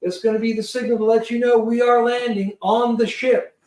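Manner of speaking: brisk pilot briefing. Retold or imitated. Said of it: "And he goes".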